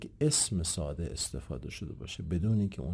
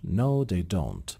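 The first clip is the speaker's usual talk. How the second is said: slow, with a pitch arc on "No" and "don't"; arched intonation; much slower than usual. Shown as a demonstration. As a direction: curve "No" and "don't", ending downward. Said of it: "جفتشون قوس از پایین هستش".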